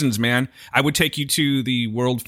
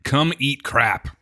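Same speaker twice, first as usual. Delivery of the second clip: mock slogan; much slower than usual.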